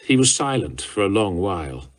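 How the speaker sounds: usual speaking voice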